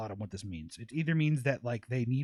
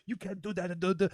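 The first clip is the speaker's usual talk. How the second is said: imitating objectors, higher pitched; mock objecting; 6 semitones higher than usual. People objecting to his extreme examples, mock protest. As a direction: parody a protest in a raised voice.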